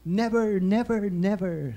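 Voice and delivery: recited Bible declaration, slowing at the end; Joel Osteen. Retold or imitated. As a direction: recite it as a pledge, stretching the final nevers. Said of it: "Tapos sasabihin niya".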